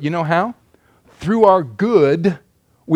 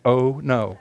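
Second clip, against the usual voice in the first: comic dismay; 6 semitones lower, 5 dB quieter than usual. Acted. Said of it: "That's my translation".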